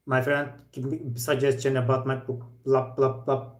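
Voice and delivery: put-on flat old cassette player delivery; no emphasis. Teacher mimicking a student's talk, with no emphasis. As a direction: recite it evenly, with no word emphasised. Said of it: "like old cassette player. No emphasis".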